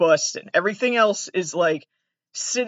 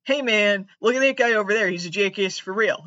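higher hammed-up prankster bro; mocking bro voice; 3 semitones higher than usual. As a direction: mimic a smug prank bro.

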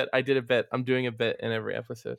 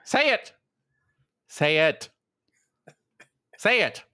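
pushy, higher repeated demand; insistent urging; 7 semitones higher, 3 dB louder than usual. Acted. Host urging his cohost to deliver his line, insistent and louder. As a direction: lean on him to say the line.

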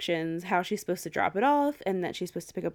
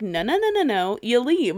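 urgent warning; 2 semitones higher, 5 dB louder than usual. Retold or imitated. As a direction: warn her off, loud and urgent. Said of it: "I'm like".

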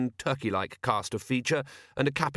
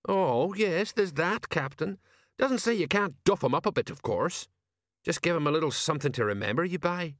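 higher-pitched, matey sergeant voice; chatty old soldier; 7 semitones higher than usual. Acted. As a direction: play a veteran explaining things to a superior.

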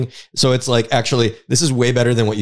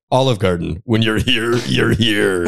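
wet voice announcer. Retold or imitated. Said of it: "Announcer with a wet voice".

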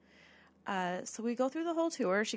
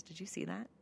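imitated whisper; 10 dB quieter than usual. Anthony whispers during the tour, imitated hushed whisper. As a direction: ask it under your breath. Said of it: "he whispers, he goes".

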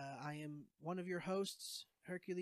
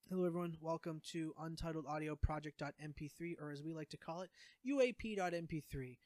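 podcast intro; 4 dB quieter than usual. Shown as a demonstration. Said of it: "the whole opening would be".

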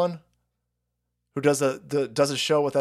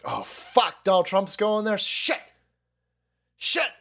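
mock Biden panic; 4 semitones higher than usual. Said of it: "Joe Biden was like".

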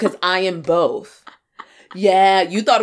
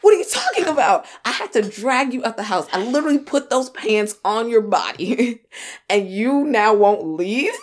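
mock exasperated; 4 semitones higher than usual. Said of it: "and you're like".

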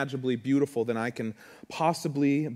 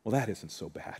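Pippin; 6 dB quieter than usual. Acted. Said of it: "And what does Pippin say".

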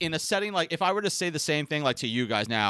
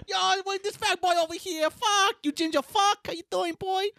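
very high-pitched mock Asian accent; hammed-up Asian accent, teasing a friend. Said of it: "my Asian accent".

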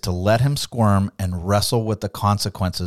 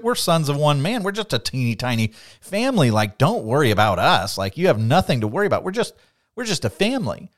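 higher, eager pleading reassurance; nervous brothers; 4 semitones higher than usual. Retold or imitated. Brothers nervously reassuring Joseph, higher pitched. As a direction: talk fast to calm a dangerous man.

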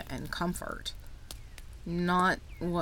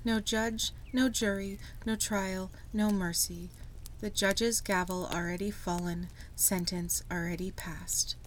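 poem reading. Acted. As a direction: read it like a grim poem. Reads a poem aloud.

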